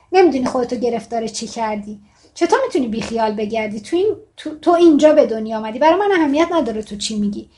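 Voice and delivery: a lightly acted scolding mother, pushing harder; mother arguing. Mother scolding her daughter while stirring the sauce, mild acted argument. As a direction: read it as a mother quarrelling in earnest, but understated.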